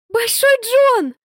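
high, slow glad shout; joyful cry. A narrator's reading. Girl greets her rescuer with a happy cry. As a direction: call out in relief. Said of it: "радостным криком".

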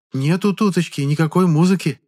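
high, puzzled peasant drawl; a villager's high, surprised reply; surprised drawn-out. Acted. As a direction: stretch it out in mild wonder. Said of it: "удивлённо протянула крестьянка".

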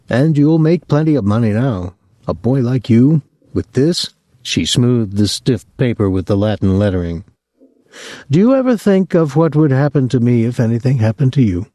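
anxious mother pleading; worried old mother. Acted. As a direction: nag him about the reckless driver. Mother guilting her son.

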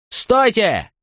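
high urgent shout to stop them; desperate shout of stop. A narrator's reading. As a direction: cry out to halt the fight. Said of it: "закричал по-кельтски Катон".

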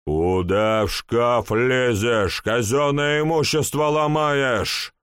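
sharp angry shout. Acted. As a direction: yell at him, stamping a foot. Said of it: "крикнул я".

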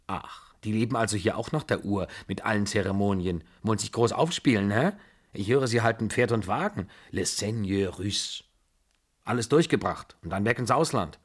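lightly voiced scornful old lady; a hint of grandmotherly disapproval, needling; imperious old aunt.

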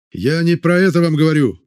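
high, loud and insistent; shouting over him. A narrator's reading. Vorontsov arguing with the crowd, loud shout. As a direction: shout down the other man. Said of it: "постарался перекричать его Воронцов".

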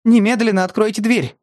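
put-on frightened girl snapping an order. A narrator's reading. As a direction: raise your voice at him. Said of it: "повысила она голос".

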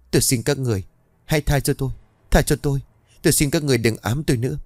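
high, tearful begging; sobbing plea. A narrator's reading. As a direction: whimper for mercy near tears. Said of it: "miệng của mụ không ngừng mếu máo". (giọng mếu máo van xin)

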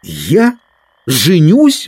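rising disbelief on the last word; startled, can't believe it; astonished exclamation. A narrator's reading. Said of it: "воскликнул Дик".

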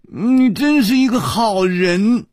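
put-on high, girlish coquettish praise; coy delight in a high voice. A narrator's reading. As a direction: gush sweetly, pitched right up. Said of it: "破涕为笑， 娇笑着说".

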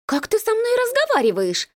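an offended woman shrieking at him. A narrator's reading. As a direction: squeal in outrage. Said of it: "взвизгнула она".

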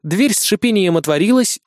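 ordinary delivery

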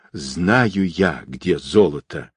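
usual speaking voice

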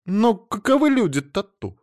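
high indignant outburst; indignant young wife. A narrator's reading. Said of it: "возмутилась Эльза".

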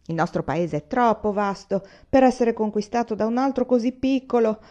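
a hint of a proud, categorical old man; old general lecturing his son, categorical; lightly voiced old general.

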